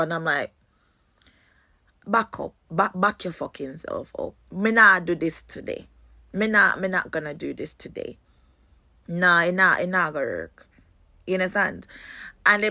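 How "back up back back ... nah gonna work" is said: Jamaican patois warning. Retold or imitated. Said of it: "when I'm angry, you know I'm Jamaican".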